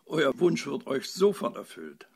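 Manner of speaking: relieved. A narrator's reading. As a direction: promise it with mild relief. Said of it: "rief die Fee erleichtert".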